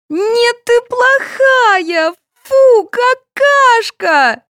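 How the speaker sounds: put-on very high, slow child's whine; a spoiled toddler sulking; whining child. A narrator's reading. Sveta whining at her mother, very high. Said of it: "заныла дочь".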